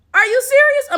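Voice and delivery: loud, high disbelief; can't believe what you heard; incredulous. Real, not acted. Incredulous outburst.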